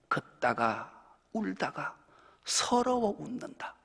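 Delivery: slow, sung-like lyric recitation; reciting lyrics. Shown as a demonstration. Preacher reciting song lyrics to the congregation, slow and heartfelt. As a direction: chant the lyric lines slowly, feelingly.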